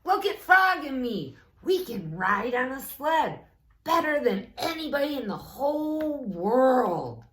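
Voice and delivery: high, loud bragging; boastful Toad. Acted. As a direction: brag to the crow, high and loud.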